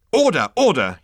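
high, loud yapped command; yapping. A narrator's reading. Management consultant calls the meeting, yapping. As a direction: yap for order. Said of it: "yapped the management consultant".

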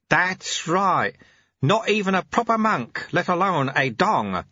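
enjoy admitting it, cheerfully. Acted. Sweeper cheerfully tells the novice he's no monk. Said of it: "said the sweeper cheerfully".

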